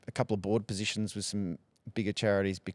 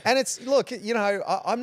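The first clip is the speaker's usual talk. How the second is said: higher, laughing start; 12 semitones higher, 5 dB louder than usual. Real, not acted. Guest laughing off a jab about his accents, talking through a laugh. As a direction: laugh your way into the answer.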